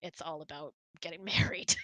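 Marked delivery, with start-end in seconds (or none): none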